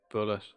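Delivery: "bullet" said like the ammunition word, hard T at the end. Shown as a demonstration. Streamer trying chat's pronunciation, saying "bullet" with a hard T. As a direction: pronounce "bullet" with a crisp final T, not French. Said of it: "Boulier is pronounced bullet".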